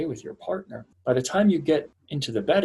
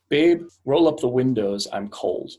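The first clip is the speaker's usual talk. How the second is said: commanding demand; 6 dB louder than usual. Retold or imitated. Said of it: "So she could say".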